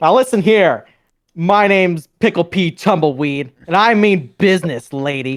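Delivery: kind of loud, forceful, means-business tone. Voicing a guy overheard from the stairs, loud Pickle Pete Tumbleweed voice. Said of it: "he's being kind of loud".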